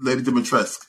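Dimitrescu said "dimi-tresk", the final u dropped; corrected pronunciation. Shown as a demonstration. Showing the co-host how it is pronounced, Dimitrescu with silent u. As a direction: end Dimitrescu on the k sound. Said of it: "That's how you pronounce it".

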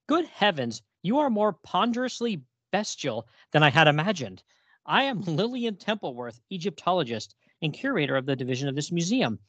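lightly voiced snooty curator; a hint of haughty museum lady reading the comic. Co-host reads Lillian's haughty lines with only a mild snooty lilt. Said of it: "that's a little too snooty for me".

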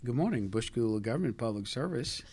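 customer service voice. Retold or imitated. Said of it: "so I just sit there and I go".

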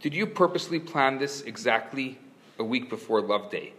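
ordinary talk, nothing marked

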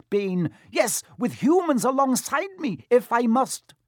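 high-pitched angry centaur tirade; impassioned bellow. A narrator's reading. Centaur defies his fellow for humans' sake, high impassioned bellow. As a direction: argue back hotly, pitch held very high. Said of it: "Firenze bellowed at Bane".

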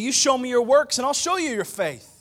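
ordinary talk, nothing marked

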